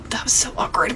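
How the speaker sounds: hushed aside after an awkward moment; awkward whisper. Retold or imitated. Girl to her date after they leave, whispered. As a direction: whisper it under the breath.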